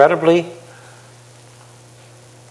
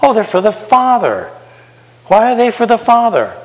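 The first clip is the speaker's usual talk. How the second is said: mock answer; 10 semitones higher than usual. Shown as a demonstration. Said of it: "So who are the questions for?".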